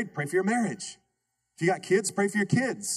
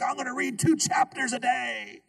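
overeager reader; 6 semitones higher than usual. Retold or imitated. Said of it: "Be like".

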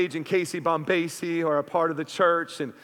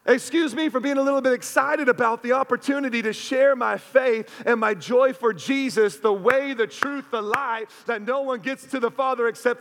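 passionate retort; 4 semitones higher than usual. Retold or imitated. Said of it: "And I was passionate".

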